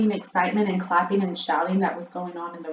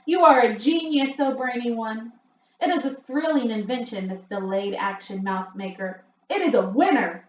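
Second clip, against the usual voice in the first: high, loud cheering witch crowd; witches cheering; 5 semitones higher, 6 dB louder than usual. A narrator's reading. Witches cheer the Grand High Witch, high and loud. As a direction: hail the genius with wild applause. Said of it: "clapping madly and shouting".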